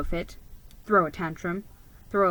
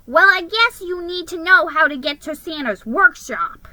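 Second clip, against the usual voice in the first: grumbling; 3 semitones higher, 4 dB louder than usual. Acted. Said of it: "he grumbled".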